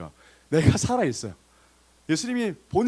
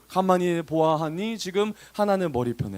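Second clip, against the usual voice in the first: ordinary delivery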